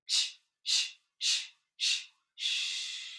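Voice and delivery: quiet staccato shushing; short shh bursts, fading. Shown as a demonstration. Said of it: "It's staccato, it's strong".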